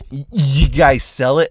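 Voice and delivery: mock an indignant customer's demand; angry customer. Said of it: "was angry for no fucking reason".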